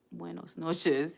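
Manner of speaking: "Buenos noches" slow, careful, each word drawn out; trying Spanish. Shown as a demonstration. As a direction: sound out "Buenos noches" slowly like a learner. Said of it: "my French needs a lot of work".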